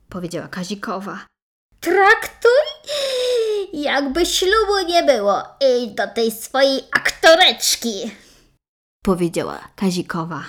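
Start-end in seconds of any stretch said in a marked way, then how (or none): 1.8-8.1 high, tearful and loud; crying out in hurt. Acted. Jilted bride breaks down.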